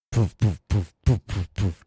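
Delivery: repeated short popped puffs; imitated puffing. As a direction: make little chugging puff noises. Imitates tractor puffing noise.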